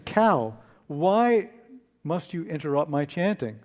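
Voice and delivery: angry monk. Acted. Monk stands up to confront the cow, mildly angry. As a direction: demand an answer with a touch of anger. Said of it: "stands up angrily and he says".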